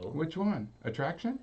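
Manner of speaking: unvoiced hushed question; whispering. Real, not acted. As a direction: whisper it so nobody overhears. Secret game name, hushed.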